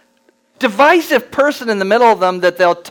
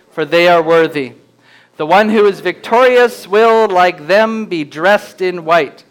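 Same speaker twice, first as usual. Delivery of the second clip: slow, weighty reading of scripture. Acted. Pastor reads the letter to Sardis to the congregation, solemn and slow. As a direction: read it out as the voice of Jesus, slowly.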